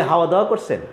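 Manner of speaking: kh softened to h, হাওয়া for খাওয়া; imitating the Brahmanbaria h sound; Brahmanbaria accent. Teacher imitating Brahmanbaria speakers, h for kh. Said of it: "ওরা বলে".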